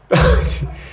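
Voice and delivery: short high burst of laughter; incredulous laugh. Real, not acted. Preacher reacting to Abraham's absurd answer, incredulous laugh.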